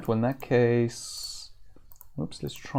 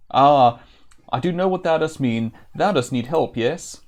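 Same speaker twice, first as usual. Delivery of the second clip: a lightly voiced playful jester, a touch louder; jester Chuckles voice; 6 dB louder than usual. Reading the jester Chuckles' reply to the Avatar, playful. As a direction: read the jester's words with a grin.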